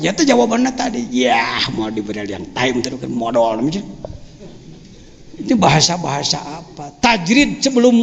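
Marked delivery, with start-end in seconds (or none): 1.1-3.6 low, monotone, softer sluggard voice; lazy friend. Retold or imitated. Preacher quoting his lazy friend's answer when questioned, low listless drone. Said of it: "Saya punya teman malasnya luar biasa".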